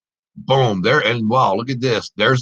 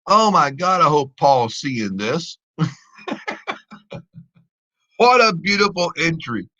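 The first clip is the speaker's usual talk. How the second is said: real excitement; 4 semitones higher, slower than usual. Real, not acted. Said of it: "I'm so freaking out right now".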